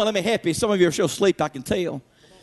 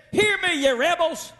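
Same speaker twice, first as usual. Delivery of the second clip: higher, heated rebuke; angry Moses; 5 semitones higher than usual. Retold or imitated. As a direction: call them rebels in anger. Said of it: "He is still angry".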